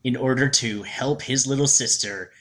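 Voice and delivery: slow, dramatic mock trailer voice; hammed-up trailer narrator; movie trailer narration. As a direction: intone it slowly like a trailer opening.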